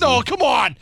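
high, loud laughing complaint; laughing protest. Real, not acted. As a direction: object through a laugh. Protests easy pick, laughing.

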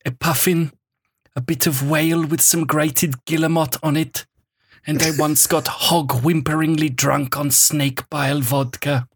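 lightly done German-tinged Herzog reading, grave and deliberate; Werner Herzog voice. Acted. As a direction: read the column like a brooding German documentary narrator. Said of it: "because Werner Herzog's saying them".

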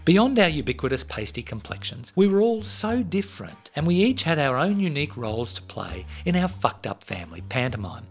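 measured storytelling read over music; story narration. A narrator's reading. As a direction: read it like a podcast intro. Scripted intro read over music.

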